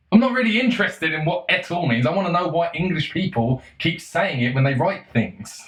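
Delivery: high-pitched exasperation easing down; exasperated rant. Real, not acted. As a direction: start high in protest, then settle. Exasperated rant about pretentious words.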